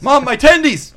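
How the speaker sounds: high, loud bratty yell; spoiled son. Acted. Spoiled son demanding food from mother, loud high whine. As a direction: wail for mom like an overgrown child.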